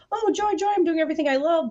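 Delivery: high, sarcastic chirp of joy; mock joy. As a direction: gush it like a sarcastic cheerleader. Mock cheerful work quote.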